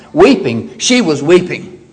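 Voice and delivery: "Weeping" set apart and stressed, then "she was weeping"; emphatic "Weeping", voice falling after it; emphatic repetition. Shown as a demonstration. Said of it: "It's a very emphatic way".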